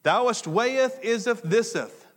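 loud, high, slow mock-scripture voice; hammed-up olde Bible pronouncement; mock King James English. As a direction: intone garbled archaic scripture for laughs. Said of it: "I don't talk like that".

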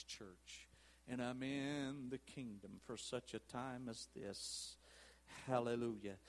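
low, soft preaching with long pauses; quiet, reflective plea from the pulpit; hushed pastoral appeal. Real, not acted. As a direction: let it sink to a near hush.

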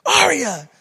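sharp rise in pitch and volume; yelled warning. Retold or imitated. Father catching his little daughter at the outlet, yelling. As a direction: call out to stop a child, high and loud. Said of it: "and I yelled at her".

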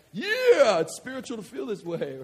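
very high, loud yeah then dropping back; mock cheer. Pastor parodying forced church excitement, loud. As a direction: ham up a dutiful shout. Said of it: "I'd be like".

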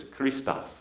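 "Christos" as slow kree-STOS; Greek pronunciation. Shown as a demonstration. Pastor teaches the Greek word, "Christos" said slowly as kree-STOS. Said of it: "Greek word is".

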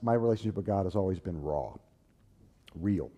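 normal talking voice

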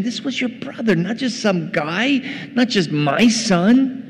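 acted dad reasoning earnestly with his son; insistent father. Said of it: "the dad, saying".

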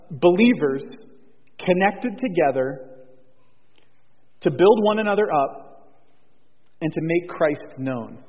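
slow, deliberate phrasing with pauses; measured pace, pausing between phrases; slow repeat. Real, not acted. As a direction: spell out the definition slowly, phrase by phrase. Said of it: "say it again a little bit slowly".

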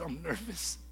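whispered admission; hushed confession. Retold or imitated. Admitting to mom he is nervous, whispered. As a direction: whisper it like a secret.

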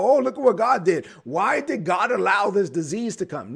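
a hint of whining at God; complaining sick people. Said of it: "and then they go".

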